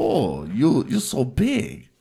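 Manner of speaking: drawn-out mock Asian-accented moan, rising high; slow fake Asian accent, sliding up high; mimicked accented moan. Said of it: "Like that".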